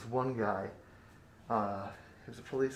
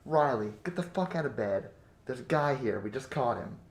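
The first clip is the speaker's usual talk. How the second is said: mildly raised voice, quoting the crew; retold wake-up order; 5 dB louder than usual. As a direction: rouse a sleeper with a half-raised voice. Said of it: "They shook my ass up and said".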